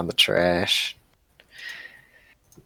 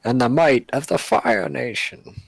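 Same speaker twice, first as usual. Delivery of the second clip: villain voice; 4 semitones higher, 5 dB louder than usual. Acted. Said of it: "Wait, wrong show".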